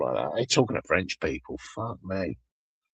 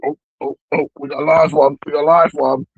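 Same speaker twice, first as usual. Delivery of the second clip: excited; 5 semitones higher, 9 dB louder than usual. Real, not acted. Excited radio host spotting a caller.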